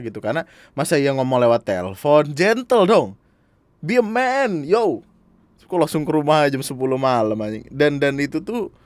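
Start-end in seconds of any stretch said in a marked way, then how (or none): 2.3-5.1 high, loud self-hyping; mock bravado. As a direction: declare it with playful swagger. Cheers himself on to face mother. (sok jantan, lantang dan tinggi)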